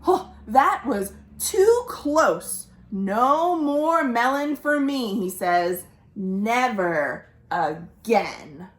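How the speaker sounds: slow, relieved sigh-like croc; relieved crocodile. Acted. Croc relieved after burping the seed, slow and firm. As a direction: swear it off slowly.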